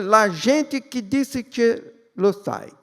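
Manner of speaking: mock Italian, slow and drawn out; Italian accent. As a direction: say it like an Italian Jesus. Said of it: "Em italiano".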